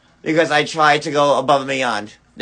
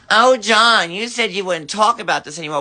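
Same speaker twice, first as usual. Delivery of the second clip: high, whiny mockery of his critics; mocking quote; 5 semitones higher, faster than usual. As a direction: parrot the critics with a sneering whine. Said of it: "the people saying".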